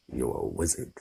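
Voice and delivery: soft, low reveal; quiet reveal. Acted. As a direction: let it land softly. The big reveal.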